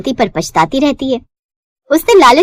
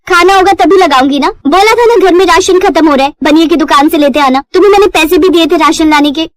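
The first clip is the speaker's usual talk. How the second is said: higher, louder scolding; wife scolding her drunk husband, higher and louder; nagging wife; 5 semitones higher, 3 dB louder than usual. Acted. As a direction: tell off the late husband.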